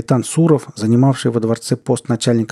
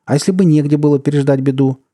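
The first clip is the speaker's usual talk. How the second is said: higher, louder worried exclamation; pressing, raised-voice question; exclaiming; 5 semitones higher, 5 dB louder than usual. A narrator's reading. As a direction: cry out the question in protest. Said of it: "воскликнул царь".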